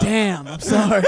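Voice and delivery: laughing echoey backup line; echoey backup vocal. Retold or imitated. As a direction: imitate the song's echo voice, giggling. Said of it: "the echoey voice that goes".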